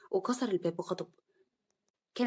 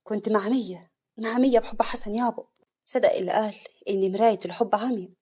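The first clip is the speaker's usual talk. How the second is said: sad; 5 dB louder than usual. Acted. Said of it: "عفاف بحزن".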